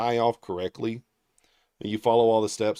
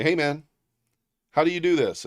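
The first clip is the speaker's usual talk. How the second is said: clueless coworker; 6 semitones higher, 5 dB louder than usual. Retold or imitated. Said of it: "you call me the next day and you say".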